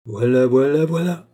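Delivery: "Voilà, voilà, voilà" climbing in pitch, loud; rising, emphatic triple "voilà"; gradual crescendo of emphasis. Acted. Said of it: "accentua graduellement le jeune vaurien".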